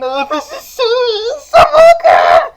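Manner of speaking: very high squeal bursting into loud joy; ecstatic fanboy shriek. Acted. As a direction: squeal it, then explode. Fanboy thrilled by meeting Satan.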